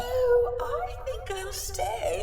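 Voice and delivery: slow, theatrical menacing ghost; Lady Macbeth voice. Acted. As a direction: loom over them like Lady Macbeth. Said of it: "Did you have to do your Lady Macbeth voice?".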